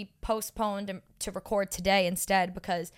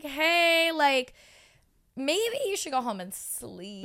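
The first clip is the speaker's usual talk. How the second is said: gentle advice; 4 semitones higher, slower than usual. Retold or imitated. To tired friend, urging sleep gently. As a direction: coax her to rest.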